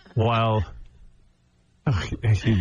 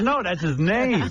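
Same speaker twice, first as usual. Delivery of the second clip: put-on higher, drawn-out voice of a correcting child; imitated daughter; 6 semitones higher, slower than usual. Daughter correcting her dad about a rapper's name, lightly imitated. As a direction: lightly imitate a kid setting dad straight. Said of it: "She goes".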